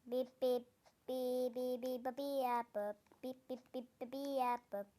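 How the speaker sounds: beeping robot noises; robotic bip bop chant. Pretend. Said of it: "O bip bop bup denen".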